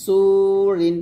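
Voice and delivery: সুরিন with a heavy সু and light রি. Shown as a demonstration. Teacher demonstrating heavy সুরিন for students. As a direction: say সুরিন with full সু. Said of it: "সুর এখানে জের হবে".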